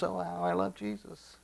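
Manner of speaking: high, soft, gushing echo; mock devotion. Preacher imitating people who only say they love Jesus, softly gushing. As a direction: imitate a showy believer, high and hushed. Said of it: "there are many people that say".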